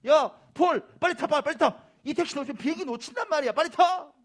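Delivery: high, loud acted urging; impatient colleague shouting; urgent hurrying. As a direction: yell at a dawdling friend to hurry. Colleagues urging Paul into taxi.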